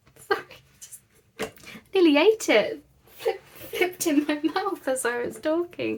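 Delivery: talking through laughter. Explaining that something nearly flipped into the mouth mid-sentence, laughing while talking. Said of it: "that made me laugh".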